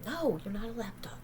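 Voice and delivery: hushed teasing to the dog; whisper to the dog. Real, not acted. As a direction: whisper it fondly. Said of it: "whispering to the dog".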